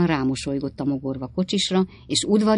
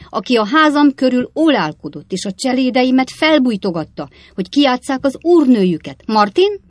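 put-on high, loud old woman's voice; old lady cutting in; 9 semitones higher, 8 dB louder than usual. A narrator's reading. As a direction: break in like an indignant old lady. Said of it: "az öreg néni". (közbevágó öreg néni, magas hangon)

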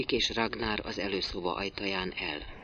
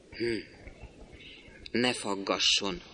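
grumbling, half turned away; 6 dB quieter, slower than usual. A narrator's reading. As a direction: mutter it while turning away. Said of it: "félig elfordulva dörmögi".

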